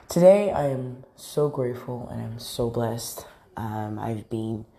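groggy just-woke-up voice; rough early morning voice. Real, not acted. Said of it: "excuse me for my, like, morning voice".

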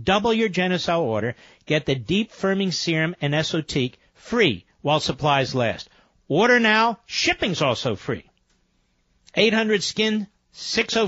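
upbeat radio ad read; infomercial. Acted. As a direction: pitch it like a sales spot. Host reads sponsor ad.

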